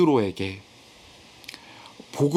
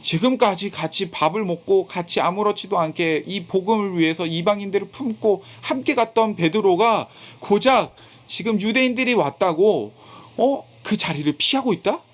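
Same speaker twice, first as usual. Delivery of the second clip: indignant, higher-pitched disbelief as Paul; retold indignation; 4 semitones higher than usual. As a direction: voice Paul's mild outrage, pitched up. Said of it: "바울은 화가 났습니다".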